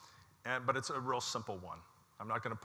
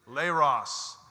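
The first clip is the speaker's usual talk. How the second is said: called out word; 8 dB louder than usual. Real, not acted. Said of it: "Let me hear you guys".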